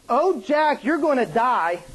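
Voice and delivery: high-starting, falling mock lament; mock movie heroine. Pastor mocking Titanic's tearful parting, lightly melodramatic. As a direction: lightly ham up the heroine's distress.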